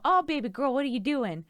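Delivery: pet talk. Retold or imitated. Greeting the cat Watson, a high cooing pet voice. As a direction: coo at the cat like a baby. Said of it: "She'll show up and I'll go".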